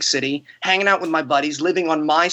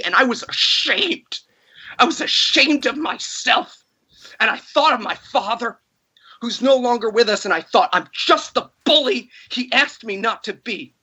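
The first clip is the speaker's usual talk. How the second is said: getting emotional; 5 semitones higher than usual. Real, not acted. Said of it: "I'm sorry for getting emotional about this".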